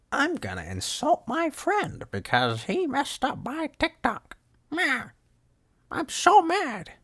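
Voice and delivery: high, slow squeaky sulky voice; mock whiny E-boy. Mocking the TikTok E-boy's tantrum in a high squeaky voice. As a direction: squeak it out like a pouting kid. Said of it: "It's like".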